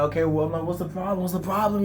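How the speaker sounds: high-pitched, frantic questioning; hammed-up urgent reply; acted exasperated alarm. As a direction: press a panicking friend for answers, voice way up. Acts out alarmed reply to panicking friend.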